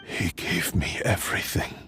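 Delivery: breathy near-whisper, barely voiced; hushed whisper. Sword spirit to Kazuha about his maker, hushed whisper. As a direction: let the words fall away in a hushed whisper.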